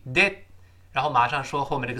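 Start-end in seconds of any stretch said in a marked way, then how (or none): 0.1-0.4 "did" with the breath held on the last d; "did" stopped short, d not exploded; unreleased final d. Shown as a demonstration. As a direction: hold the air at the end of "did". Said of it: "憋住气".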